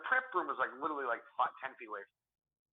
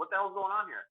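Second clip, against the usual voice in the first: lightly voiced manager, higher pitch; demanding manager; 7 semitones higher than usual. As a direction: imitate a boss demanding an explanation. Manager breaks up the quarrel.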